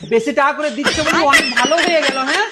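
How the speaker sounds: mocking. Husband mocks and scolds wife.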